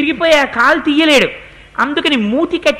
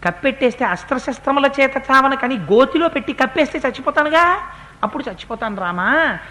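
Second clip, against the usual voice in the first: dying demon pleading; 3 semitones lower than usual. Acted. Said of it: "వాడు అన్నాడు". (రాముడిని మెల్లగా వేడుకుంటున్న రాక్షసుడు)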